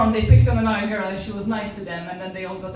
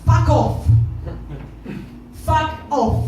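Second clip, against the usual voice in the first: loud, higher-pitched retort; losing her temper; 5 semitones higher, 5 dB louder, much slower than usual. Retold or imitated. Woman cornered on the tube telling a pest off, angry and loud. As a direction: snap it out, loud and final. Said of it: "my temper got the better of me".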